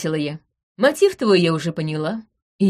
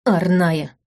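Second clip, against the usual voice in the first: scornful, raised, spitting out each word; contemptuous tirade; 4 semitones higher, 3 dB louder than usual. Acted. Veron rants about the spoiled heiress, contemptuous. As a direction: list her finery with disgust. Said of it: "выплюнул он".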